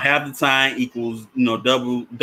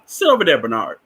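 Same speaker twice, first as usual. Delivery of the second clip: sharp order; 2 semitones higher than usual. Retold or imitated. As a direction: send the boy off firmly. Counselor orders Bernard in story.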